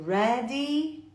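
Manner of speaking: "ready" drawn out on a long final ee. Shown as a demonstration. Teacher explaining final Y to learners, "ready" with long ee. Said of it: "pronunciadas com um I longo".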